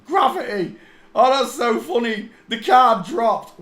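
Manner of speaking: high, loud laughing exclamation; laughing outburst. Real, not acted. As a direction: crack up as the card drops. Laughs as the card falls.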